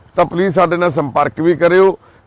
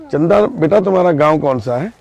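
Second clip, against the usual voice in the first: usual speaking voice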